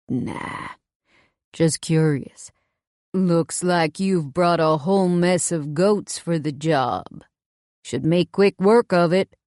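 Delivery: slow, lightly southern drawl; a touch of a southern twang, unhurried; lightly voiced southern stranger; southern accent. A narrator's reading. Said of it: "His accent sounds kinda southern".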